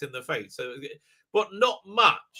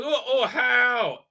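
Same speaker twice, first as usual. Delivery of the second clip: slow, hammed-up wail of confusion; mock bafflement; 3 semitones higher, much slower than usual. Mimicking Doctor Moron after a wrong button, slow mock wail. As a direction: drag it out as a clueless moan.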